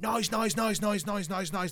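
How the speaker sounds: high, hammering run of NOISE; relentless repetition. Acted. Film fan evoking a deafening film, NOISE hammered without let-up. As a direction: hit every NOISE alike, high and insistent.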